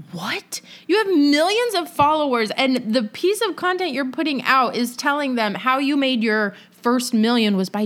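mock disbelief, pitch jumping up after "what"; incredulous. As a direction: retell your baffled reaction to silly advice. Acting her baffled reaction to the reel.

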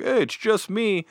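friendly. Retold or imitated. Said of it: "the guy took the mask off and was like".

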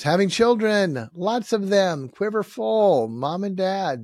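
loud preaching emphasis. Real, not acted. Preacher stressing each item.

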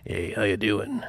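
soft, smooth pickup line; sexy voice. Retold or imitated. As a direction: croon it like a smooth talker. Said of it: "I talked to her like that".

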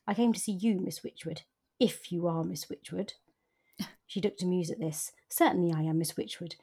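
measured audiobook reading with lightly voiced dialogue; story narration. A narrator's reading. Host reading a favourite passage to her co-host, story narration. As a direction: read the novel aloud, keeping the characters understated. Reads a novel passage aloud.

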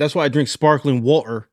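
roughly attempted British accent; lightly put-on British accent, laying down a rule; half-formed British accent impression; Andrew Tate. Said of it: "I'm still working on the accent".

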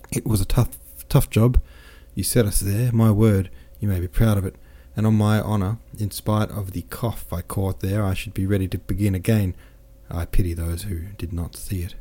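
lightly voiced, lively boastful officer; a hint of a jovial soldier bragging; cheerful French captain. Captain boasts of his wounds to Pierre, lightly voiced jovial. Captain praises the Russian defence.

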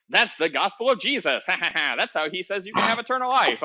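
a light nasal villain put-on for the devil; hinting at a cartoon rogue as the devil pitches the gospel; Waluigi voice. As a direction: playfully voice the devil as a cartoon baddie. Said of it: "You sound like Waluigi".

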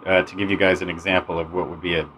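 tinny phone recording in a bathroom; lo-fi cell phone voiceover; over the phone. Shown as a demonstration. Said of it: "here's an example of some really bad voiceover".

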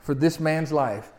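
a desperate crew begging for mercy; sailors crying out in prayer. Retold or imitated. Sailors praying to the Lord in the storm, pleading. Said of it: "they cried out to the Lord and said".

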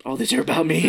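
letting the truth sink in; dawning realization. Retold or imitated. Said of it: "And then he's like".

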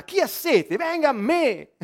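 acted cry rising high at the end; urlo a gran voce. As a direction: call out slowly, climbing on the last words. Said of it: "Urlò a gran voce". (urlo imitato che sale di tono)

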